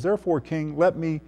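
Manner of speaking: soft, meek counsel with long pauses; soft-spoken and deferential, falling low at the end; gracious, meek appeal. Acted. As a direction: gently encourage the king, hushed and unhurried. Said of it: "very graciously and very meekly, Daniel says".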